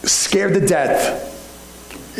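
slow, breathless whisper; scared whisper. Acted. Preacher telling of the frightened servant, whispered slowly. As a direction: hush it out, scared to death.

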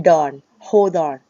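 "on" turned into "don" in "hold on"; linked don. Shown as a demonstration. Teacher explaining the linked sound to students, "hold on" said as "hol-don". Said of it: "ที่คำว่า on เป็น don".

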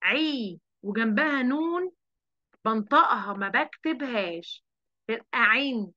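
عين said as ain plus i with an added nun; a teacher modeling the kasratain sound; tanween in. Shown as a demonstration. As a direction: build عي into عين slowly. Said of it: "العين أسفلها كسرتين".

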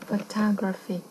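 "Photography" stressed on the TOG; stress on second syllable. Shown as a demonstration. Teacher showing main stress, "Photography" stressed on its second syllable. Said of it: "Âm thứ hai".

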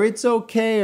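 high mock owner voice; mocking dog owner. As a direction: chirp it like a careless owner. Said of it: "always gonna be followed by or preceded by".

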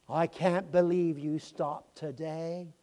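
slow, teary disbelief; tearful wonder. Retold or imitated. Young man to the preacher, slow and teary. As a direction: marvel through tears. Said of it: "He couldn't believe the trumpets".

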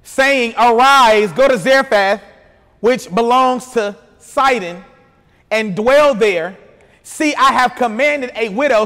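slow, measured Bible reading; scripture reading. A narrator's reading. Preacher reads Elijah's call to the congregation, scripture reading. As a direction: read it out deliberately for a congregation.

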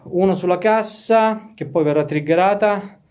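out of breath after hauling equipment. Real, not acted. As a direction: still breathless, words pushed out. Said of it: "scusate il fiatone". (senza fiato, col fiatone)

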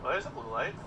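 ordinary talk

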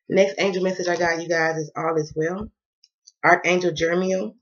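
speaking with a dry mouth. Real, not acted. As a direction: lips sticking, mouth dry. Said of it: "My mouth is dry as hell".

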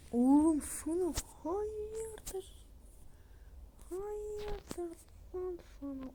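put-on high, slow street-kid challenge; high, drawn-out thug voice picking a fight; tough guy voice. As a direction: sneer it out slowly like a punk. Voicing a rude character.

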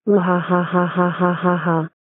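evenly pulsed, stilted villain laugh; mock evil laugh. Child plotting revenge on parents, mock evil laugh. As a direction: laugh like a scheming villain, each "ha" measured out.

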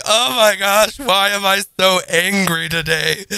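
mildly whiny, self-pitying mock sob; mock crying. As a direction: act out a tearful self-reproach. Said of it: "I just start crying while I poop".

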